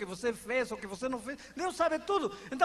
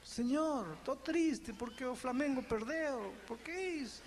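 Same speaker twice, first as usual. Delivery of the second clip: softer, confiding complaint to God; soft chatty prayer; 2 semitones higher, 5 dB quieter than usual. Retold or imitated. Believer confiding football sorrow to God, soft and casual. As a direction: talk to God like a friend, hushed. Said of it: "bater papo com Deus".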